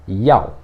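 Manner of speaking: "yao" in a firm falling fourth tone. Shown as a demonstration. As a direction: say "yao" with a strong, falling Mandarin tone. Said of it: "quarto tom, então ele é mais forte".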